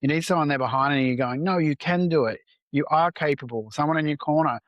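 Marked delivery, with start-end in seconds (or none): 1.4-3.7 lightly acted pep talk, pitch lifted; encouraging. Supporter behind you in your corner, encouraging. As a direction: urge them on with firm emphasis. Voices a supporter urging someone on.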